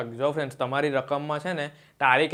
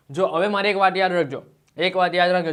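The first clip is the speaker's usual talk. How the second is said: louder, insistent teacher voice; firm classroom emphasis, calling for attention; emphatic teacher call; 3 semitones higher, 6 dB louder than usual. Real, not acted. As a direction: drive home the one thing to remember. Teacher stressing the key rule.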